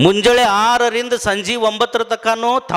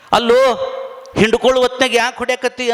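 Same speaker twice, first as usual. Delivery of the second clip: scolding; 3 semitones higher, faster than usual. Acted. Brother scolds younger brother.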